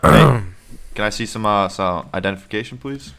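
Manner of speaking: loud, stern guard demanding ID; security guard voice. Acted. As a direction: bark like a hotel security guard. Security guard stops them.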